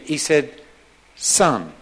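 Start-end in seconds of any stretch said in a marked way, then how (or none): 1.2-1.7 low, tender fatherly address; loving. Retold or imitated. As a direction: let the love sit in one low word. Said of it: "There's a lot of love there".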